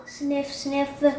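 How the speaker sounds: quick soft sniffs; two soft sniffing sounds; dog sniffing. Acted.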